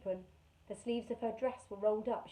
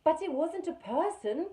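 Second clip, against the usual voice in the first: speaking slowly; 8 semitones higher, 7 dB louder than usual. Acted. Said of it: "speaking slowly to make them understand".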